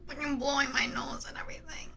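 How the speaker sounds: breathy whisper aside. Real, not acted. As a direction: whisper it under your breath.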